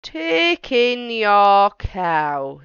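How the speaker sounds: put-on slow, deliberate wise old man; measured advice from an old sage. Wise old man advising the lady, slow and deliberate.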